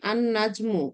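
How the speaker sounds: আন নাজমু with doubled n, lam silent; recitation demo. Shown as a demonstration. Teacher models the Quranic reading of আন নাজমু. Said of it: "উচ্চারণ করতে গিয়ে কি উচ্চারণ করি".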